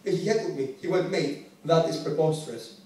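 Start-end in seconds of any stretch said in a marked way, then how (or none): 1.1-2.8 slow, measured heckle; lightly imitated formal announcer; announcing heckler. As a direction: announce it slowly as a formal objection. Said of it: "That's the way he announced it".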